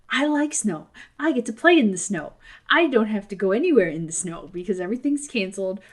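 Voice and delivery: a hint of an eager child stating their case; lightly voiced child self. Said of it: "When I was a kid".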